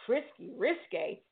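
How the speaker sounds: lightly voiced excited gossip; mock excitement. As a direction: imitate nosy onlookers relishing gossip. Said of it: "people were excited, like".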